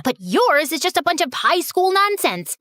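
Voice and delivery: ordinary delivery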